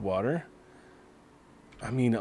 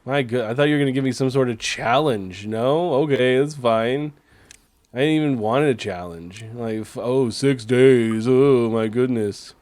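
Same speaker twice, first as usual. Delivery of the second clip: fake Scottish accent; 4 dB louder than usual. Streamer mocking the easy drought to chat, fake Scottish accent. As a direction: scoff at the game in a mock Scottish brogue. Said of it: "you like my fake Scottish accent".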